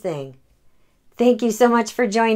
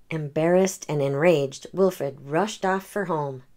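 gentle read-aloud storytelling; story narration; 3 semitones lower than usual. A narrator's reading. The speaker reading a picture book to children, gentle. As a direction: read it like bedtime for kids.

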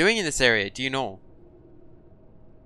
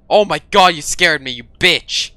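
startled; 7 dB louder than usual. Real, not acted. Startled by teammate.

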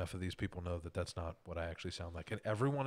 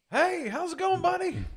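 much higher and louder, a pushy salesman phone voice; over-the-top loud phone persona, pitched far up; loud obnoxious voice; 13 dB louder, slower than usual. Retold or imitated. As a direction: boom a fake-friendly hello down the phone, way up high. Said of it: "in my most, like, loud, obnoxious voice".

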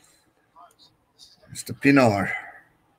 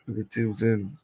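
whispered aside, dropping to a hush; conspiratorial whisper; 7 dB quieter, slower than usual. Real, not acted. Streamer confides to chat about the money move, whispering. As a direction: let the secret slip out under his breath.

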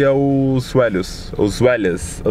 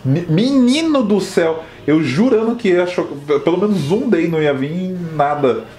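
higher, slow exasperated lament; 4 semitones higher, slower than usual. Real, not acted. Trainer lamenting another useless hatch, exasperated. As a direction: moan at the bad luck.

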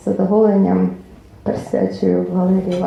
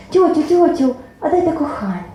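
put-on young girl; 7 semitones higher than usual. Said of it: "підлетіло дівча".

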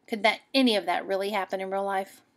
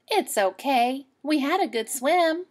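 put-on a bit higher, louder girl; girl forgiving; 4 semitones higher, 5 dB louder than usual. Girl to the animals, lightly voiced cheerful.

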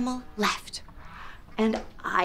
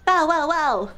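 higher bow-wow-wow bark; dog noises; 4 semitones higher, 4 dB louder than usual. Pretend. Host makes dog noises with children, playful barking. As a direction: bark three times, playfully. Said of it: "Can you make dog noises with me?".

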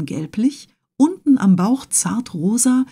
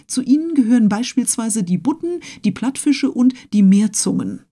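pedantic Conseil; 5 semitones higher than usual. Acted. Conseil lectures on fish.

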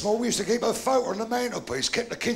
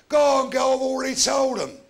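loud, higher shout across the room; 5 semitones higher, 7 dB louder than usual. Retold or imitated. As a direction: yell it out to her from afar. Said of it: "he shouted out".

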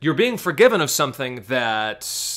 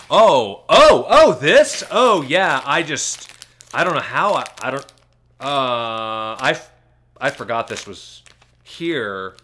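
put-on flustered caught kid; 6 dB louder than usual. Kid caught hiding something, flustered and loud at first. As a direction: panic like a caught kid making excuses. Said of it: "the kid who walks up".

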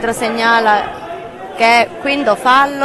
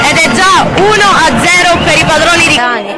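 higher, slowed goal announcement; excited goal call; 4 semitones higher, 3 dB louder than usual. Real, not acted. Goal call in live match commentary.

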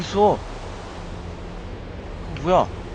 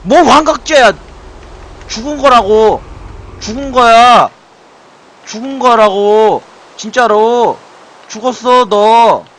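loud indignant shouting, pitched up; angry yelling; 2 semitones higher, 5 dB louder, slower than usual. Real, not acted. Player yells back at the game's villain, loud and indignant. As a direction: hammer each line like an outraged protest. Yelling at game character angrily.

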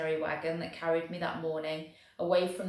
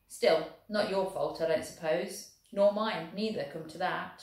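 lightly voiced Welsh soldier, proud and lively; a hint of a cheerful Welsh infantryman. Welshman boasting of rugby to the German, lightly voiced.

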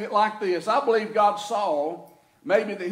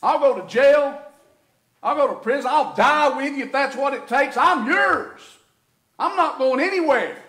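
boasting; 2 semitones higher, 4 dB louder than usual. Retold or imitated. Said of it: "he had made the boast".

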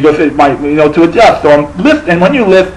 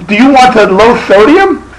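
imitated checkout girl, higher-pitched mocking question; teasing; 5 semitones higher than usual. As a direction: poke fun at the lisper in a raised voice. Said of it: "she was fucking with me".

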